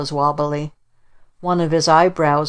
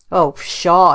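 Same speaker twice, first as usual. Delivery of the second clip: louder, dismissive scoff; scornful; 5 dB louder than usual. Acted. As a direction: wave it off with scorn. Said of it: "It sounded scornful".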